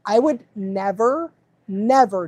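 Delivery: "never" drawn out slowly and repeated; emphatic NEVER. Real, not acted. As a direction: hold "never", pause, say "never" firmly. Emphatic repeat of her principle.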